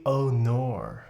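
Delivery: drawn-out mock Australian "oh nor"; slow, hammed-up Australian vowels; Australian accent. Streamer asked to try an Australian accent, mock Australian. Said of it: "How good is your Australian accent?".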